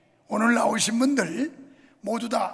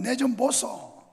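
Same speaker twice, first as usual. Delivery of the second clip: Gyeongsang dialect; slower than usual. Retold or imitated. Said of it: "경상도는".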